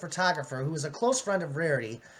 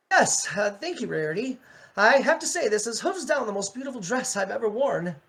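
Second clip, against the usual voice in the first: a bit higher, grateful Starlight; lightly voiced Starlight, thanking her; 5 semitones higher than usual. Starlight thanking Rarity for her dress, lightly voiced. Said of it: "I'll do Starlight".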